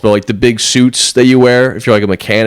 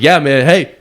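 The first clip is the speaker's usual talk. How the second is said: bro impression; 4 semitones higher, slower than usual. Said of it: "He's like".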